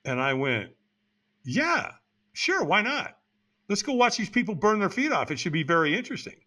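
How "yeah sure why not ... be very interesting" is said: higher-pitched, sarcastic going along; mock agreement. Talked into watching the firewalk, mock-agreeable. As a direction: agree with put-on casual interest.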